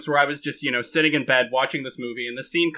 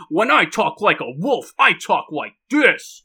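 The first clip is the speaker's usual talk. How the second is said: mock wolf voice; 3 semitones higher, slower than usual. Shown as a demonstration. Friend showing the others how the wolves all talk, mock wolf voice. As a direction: put on the tough wolf-pack voice, slowly. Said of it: "everybody's wolf voice".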